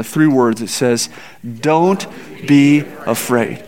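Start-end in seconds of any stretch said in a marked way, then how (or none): 1.6-3.6 reassuring. Shown as a demonstration. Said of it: "Let's say it out loud together".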